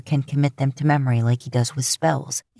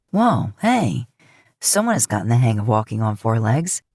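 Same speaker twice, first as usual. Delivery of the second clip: happy praise; 6 semitones lower than usual. Acted. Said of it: "Dean says happily".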